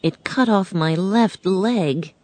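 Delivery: a hint of a metal man mourning his lost heart; Tin Man's tale. Tin Man telling Dorothy his sad story, gently voiced.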